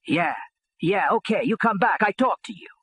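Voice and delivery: put-on father shrugging them off in a mild Italian accent; light Italian accent. Father brushing off the union goons, mild Italian accent. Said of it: "he says with a little Italian accent".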